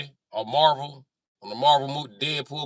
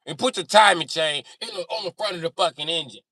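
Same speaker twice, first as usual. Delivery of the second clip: louder, higher angry demand; exasperated rant; 6 semitones higher, 5 dB louder than usual. Pretend. Mechanic tells Audi where to put timing chain, exasperated. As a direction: order them about in raised exasperation.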